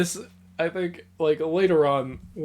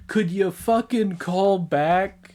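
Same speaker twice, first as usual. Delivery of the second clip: slow, higher-pitched exasperated demand; mock scolding; 5 semitones higher, slower than usual. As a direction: imitate a fed-up mother. Retold mother scolding on her return.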